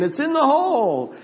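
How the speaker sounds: mock holler of triumph, pitched high; imitated yell. Golfer calling back to his friend, high excited yell. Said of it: "he was yelling at me saying".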